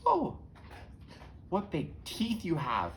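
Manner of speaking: high gasped oh, then slow wonder; startled little girl, swooping and slow; Little Red Riding Hood. Acted. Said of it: "creeps up towards the bed and says".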